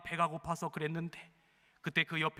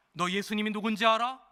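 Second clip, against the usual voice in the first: gruff convict; 4 semitones higher, 5 dB louder than usual. Acted. Convict quizzes another prisoner.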